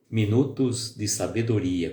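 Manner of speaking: "Minutos de Sabedoria" drawn out slowly with a falling radio-host tone; imitating announcer intonation. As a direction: lightly mimic a colleague's program opening. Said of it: "com aquela voz, com aquela entonação".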